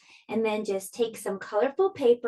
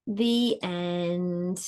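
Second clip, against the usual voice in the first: gentle storybook read-aloud; lively storybook narration for little listeners; reading to children. A narrator's reading. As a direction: tell it like a bedtime picture book. Reads picture book to children.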